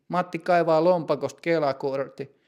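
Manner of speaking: ordinary delivery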